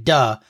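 "duh" leaned on with a little extra force; stress on DUH. Shown as a demonstration. Host explains how to say the slang, stressed "duh". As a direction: accentuate "duh" with a little enthusiasm. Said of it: "do not forget to accentuate".

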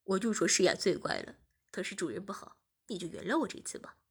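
pretend pitiful. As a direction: beg forgiveness with fake puppy eyes. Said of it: "假装可怜地说". (假装可怜地求饶)

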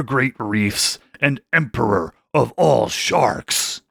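a shark king proudly announcing his titles; grand shark king. Acted.

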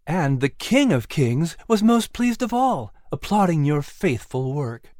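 lightly voiced figures in the story; character voices. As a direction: trade lines between two lightly voiced figures. Nigel, then Clary voiced.

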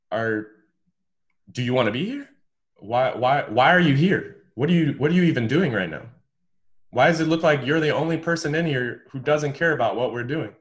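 loud, rising angry grilling; furious coach demanding answers; coach chewing him out. Retold or imitated. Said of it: "more and more intense".

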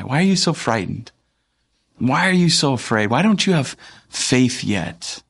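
gently teasing question, livelier pitch; twinkle in the eye. Acted. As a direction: ask with a playful twinkle, lingering at the end. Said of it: "saying that with a little bit of, like, a twinkle in his eye".

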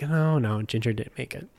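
gentle retold condolence, softening at the end; sorry, nice. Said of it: "sorry, like, nice, like".

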